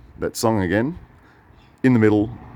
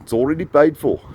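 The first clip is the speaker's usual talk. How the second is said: lightly voiced friend, raised pitch; higher voice, insisting on a gift; generous friend quoted; 5 semitones higher than usual. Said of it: "And he said".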